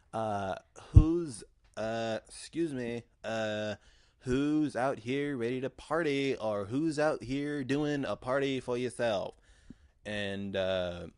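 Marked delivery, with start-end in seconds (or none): 0.9-9.4 louder, higher emcee call to the crowd; drag host hype. Retold or imitated. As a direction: work the room like a drag host. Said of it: "goes up and basically is like".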